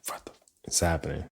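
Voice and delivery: quick whispered near-curse; stifled disbelief. Retold or imitated. Man reacting when things are not right, stifled disbelief. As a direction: whisper it fast, swallowing the swear word.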